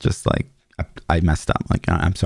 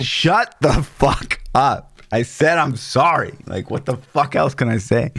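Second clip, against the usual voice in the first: retold angry outburst; 3 semitones higher, slower than usual. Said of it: "the most loud I've ever".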